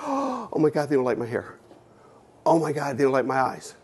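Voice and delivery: acted horrified worry; mock dismay. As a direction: fret like an insecure teenager, half in earnest. Voicing a young person's insecurity.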